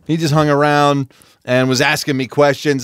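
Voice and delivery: normal talking voice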